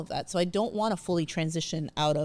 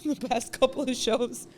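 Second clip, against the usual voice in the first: tearing up; 6 semitones higher than usual. Real, not acted. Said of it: "crying again".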